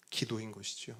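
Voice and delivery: ordinary talk, nothing marked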